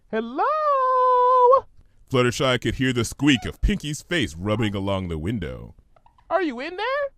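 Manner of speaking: high, singsong call; calling out brightly. Acted. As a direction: call through the door. Pinkie calling.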